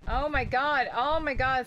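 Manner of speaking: scared horror game streamer. Real, not acted. Surrounded by monsters.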